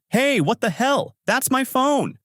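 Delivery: high, outraged yelp at a classmate; angry protest. A narrator's reading. Himekawa yelling at Shiori for throwing her phone, angry. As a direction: snap back, furious about the phone. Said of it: "Himekawa gets angry and says".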